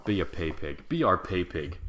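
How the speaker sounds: normal talking voice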